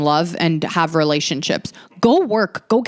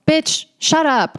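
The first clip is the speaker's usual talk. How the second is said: exasperated; 9 semitones higher, slower than usual. Real, not acted. Outburst at the girl in story.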